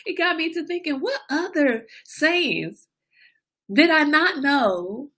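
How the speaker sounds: high, giddy, laughing voice. Real, not acted. Mom amused at herself for being late to the party, laughing. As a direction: talk through the giggles, drawing words out. Laughing through her musing.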